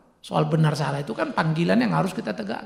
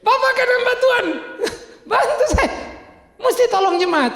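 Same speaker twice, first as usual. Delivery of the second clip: mock begging woman. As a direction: whine like she's owed help. Retold woman begging, high mock voice. (meniru jemaat yang merengek minta bantuan, suara tinggi)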